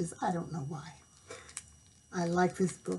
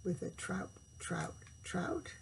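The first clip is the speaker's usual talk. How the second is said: softer, fading whisper; whispered trout; 11 dB quieter than usual. A narrator's reading. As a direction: hush it like a secret.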